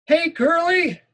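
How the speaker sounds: high, loud raspy yell of "Curly"; Benny yelling raspy. Acted. School bully yells the nickname across the yard, raspy. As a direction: bellow "Curly" like a smoky bully. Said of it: "he keeps yelling".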